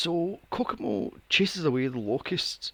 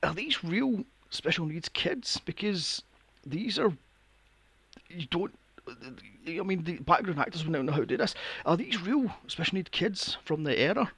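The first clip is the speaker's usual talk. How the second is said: quiet aside; 5 dB quieter than usual. Retold or imitated. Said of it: "I says to William".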